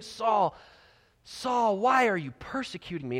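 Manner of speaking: reach out to him, pleading him to turn; appealing. Shown as a demonstration. Jesus appealing to Saul to do right, earnest. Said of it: "Jesus totally is appealing".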